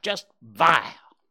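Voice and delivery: the jay repeats it with contempt; drawn-out insult. Acted. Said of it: "he snapped".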